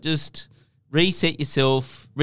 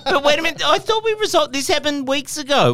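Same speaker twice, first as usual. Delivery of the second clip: mock surprise; 13 semitones higher than usual. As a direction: act shocked and baffled. Mock alarm at ad problem.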